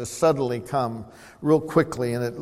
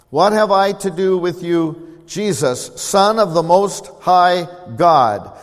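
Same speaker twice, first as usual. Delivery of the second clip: demon's voice; 4 semitones higher, 7 dB louder than usual. Acted. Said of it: "this is what they said to Jesus".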